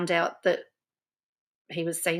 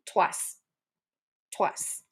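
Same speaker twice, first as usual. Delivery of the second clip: breathy whispered twice, dropping softer; whispered repeat; 5 dB quieter than usual. Real, not acted. Pointing out to viewers the ex dumped him twice, whispered. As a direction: hiss the word under breath for effect.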